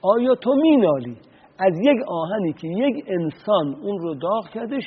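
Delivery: rebuking. Retold or imitated. Ali rebukes his brother, a mild stern scolding. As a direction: scold him for moaning over a warm iron. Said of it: "توبیخش کردم".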